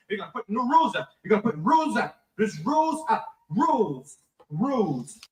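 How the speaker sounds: put-on drunk dad laying down house rules; drunk father. Drunk father setting phone rules for his wife, slurring. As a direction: slur it like a drunk laying down the law.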